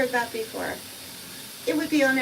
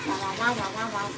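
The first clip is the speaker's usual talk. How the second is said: meowing. Pretend. Meowing at the cat.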